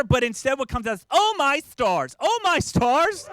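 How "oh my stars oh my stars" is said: high, slow, loud Southern-belle gasp; Scarlett O'Hara. Retold or imitated. Dad cut off in traffic, swooning like a Southern belle. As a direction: clutch your pearls like a belle. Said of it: "Like I'm Scarlett O'Hara".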